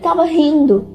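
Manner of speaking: light laugh. Real, not acted. Laughing as she tells it.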